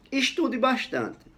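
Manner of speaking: high, drawn-out "Estude bastante"; example read out. Shown as a demonstration. Teacher reads out the example sentence, high and slow. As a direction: read "Estude bastante" slowly, well up in pitch. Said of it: "dependendo do meu tom de voz".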